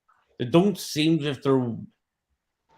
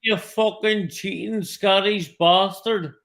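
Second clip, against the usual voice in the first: mock insult; 10 semitones higher, 7 dB louder than usual. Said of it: "you're savage".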